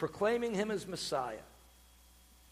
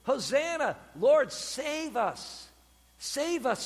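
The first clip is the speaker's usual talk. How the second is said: raised, higher plea; crowd crying out; 5 semitones higher, much slower than usual. Retold or imitated. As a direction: imitate people crying out for rescue. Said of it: "the people are crying out".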